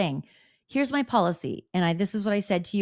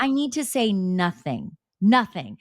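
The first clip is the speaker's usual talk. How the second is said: slow, emphatic hint of Dolores's accent; imitated Dolores accent; slower than usual. Dolores refusing to respond to Kelly Dodd, slow imitated accent. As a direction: lightly mimic Dolores's accent, landing hard at the end. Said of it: "Dolores's response was very Dolores".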